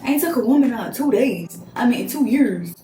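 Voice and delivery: mock his bragging in a voice not her own; lightly voiced date bragging about not dating; imitating the date. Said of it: "you think".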